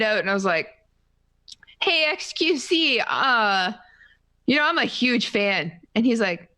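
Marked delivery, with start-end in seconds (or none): 1.8-5.7 higher-pitched, hesitant fan hello; starstruck greeting. Retold or imitated. Fan walks over to meet favorite streamer, starstruck. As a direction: re-enact an awkward, eager introduction to an idol.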